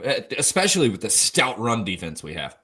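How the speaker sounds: dry, deadpan sarcasm; sarcastic. Acted. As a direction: say it like you don't believe it. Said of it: "Just a hint of sarcasm".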